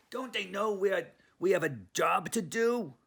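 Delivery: a small dog outraged about his duty; upset Brooklyn Chihuahua. Acted. Leon protests to Honey, high and loud. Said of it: "a Chihuahua from Brooklyn".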